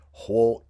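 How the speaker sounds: Ho said like hoh, open o; Lakota question ending ho. Shown as a demonstration. Teacher demonstrating the male Lakota ending Ho. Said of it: "is the male question ending".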